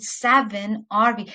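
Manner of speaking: "seven are we" slowed, with weight on SEVEN; slow, deliberate SEVEN before "are we"; emphasis on SEVEN. Shown as a demonstration. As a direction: stretch out "seven" at the front. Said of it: "The, the change of emphasis, accentuation".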